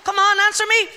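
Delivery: put-on mother scolds a child at the table, rising to a cross high demand; scolding mother. Mother scolding a child at the table, mock cross. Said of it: "your mother saying to you".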